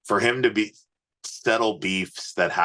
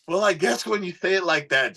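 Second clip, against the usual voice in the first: sheepish self; 12 semitones higher than usual. Retold or imitated. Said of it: "I'm like".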